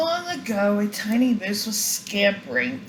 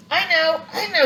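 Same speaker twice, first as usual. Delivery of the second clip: eager; 8 semitones higher, 5 dB louder than usual. Acted. Eager child answering teacher.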